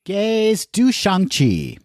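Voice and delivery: slow, drawn-out title; slow wistful. Pretend. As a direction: stretch it out dreamily.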